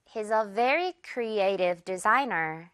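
This will create hundreds of jobs, word by word, very slowly; slow teaching read; very slow model. Shown as a demonstration. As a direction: spell the sentence out slowly for learners. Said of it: "문장 갈게요".

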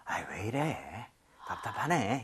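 low, soft, fed-up groan; exasperated sigh. Shown as a demonstration. Teacher demos weary exasperation, low and soft. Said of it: "이런 느낌이나".

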